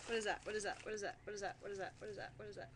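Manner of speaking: fading repetition. Real, not acted. Repeats question, fading out.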